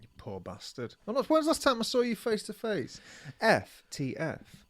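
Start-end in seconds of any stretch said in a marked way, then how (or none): 0.0-0.9 whispered mock pity; a whispered aside of fake sympathy. Real, not acted. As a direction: breathe it out under your breath. Mock pity after pigeon revenge.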